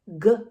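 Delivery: teacher spelling G-O-T for infants; spelling out letters. Shown as a demonstration. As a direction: sound out each letter separately. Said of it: "it makes".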